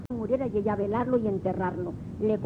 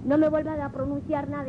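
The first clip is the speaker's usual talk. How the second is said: súplica desesperada, más aguda, con un toque de grito; súplica asustada; 4 semitones higher than usual. Retold or imitated. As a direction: ruega que pare de pegarle, voz subiendo. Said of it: "la mujer le gritaba". (la mujer golpeada le ruega al marido que calle, en una súplica aguda y asustada)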